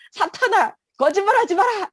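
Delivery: high-pitched commanding cry; forceful reenacted prayer shout; shouted rebuke.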